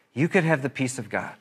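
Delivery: soft plea to the congregation. Real, not acted. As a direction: drop the voice and let it land gently. Repeated softer appeal.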